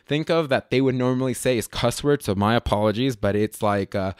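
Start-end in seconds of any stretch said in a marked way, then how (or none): none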